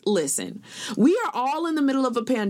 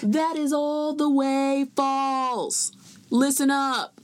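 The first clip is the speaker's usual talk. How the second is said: mock yell; 4 semitones higher, slower than usual. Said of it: "That was my version of yelling".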